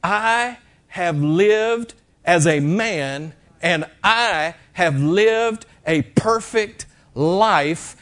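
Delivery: slow, solemn and measured; slow gentle voice of Jesus. Retold or imitated. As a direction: lay each word down slowly, like a vow. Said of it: "Jesus was saying".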